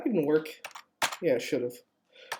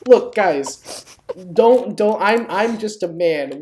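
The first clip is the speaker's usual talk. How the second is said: raised voice, pleading the chat to stop; louder, begging them to quit; loud protest; 4 dB louder, slower than usual. Real, not acted.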